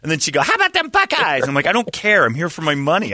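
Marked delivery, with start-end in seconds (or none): 0.4-1.5 high-pitched mock fan cheer; put-on, pitched-up small-talk voice; eager Buckeyes fan. 1.7-3.1 mock exasperation. Retold brush-off of chatty locals.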